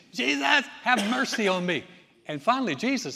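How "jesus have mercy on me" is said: beggar yelling. Retold or imitated. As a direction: cry out over the crowd. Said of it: "So he's yelling".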